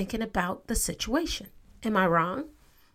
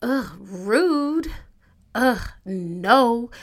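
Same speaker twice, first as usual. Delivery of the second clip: hammed-up groan of protest, louder; mock offended; 6 dB louder, much slower than usual. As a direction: play the listener who's insulted by the challenge. Mock offended listener reaction.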